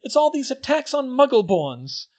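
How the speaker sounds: high, tearful, loud voice; sniffing. A narrator's reading. Hermione tells the twins her fears, sniffing and tearful. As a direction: fight back tears. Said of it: "she sniffed".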